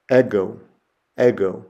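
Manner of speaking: "ego" said EH-go with a short e; Greek pronunciation. Shown as a demonstration. Teacher modelling ego for students. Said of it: "the word for I".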